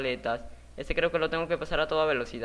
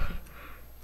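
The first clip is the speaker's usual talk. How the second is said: soft voiceless chuckle; quiet laugh; 7 dB quieter than usual. Real, not acted. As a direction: laugh it off under the breath. Se ríe del susto. (risita sin voz)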